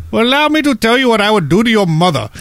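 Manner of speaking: a creepy caller taunting; menacing telemarketer. Retold or imitated. Telemarketer threatening in story.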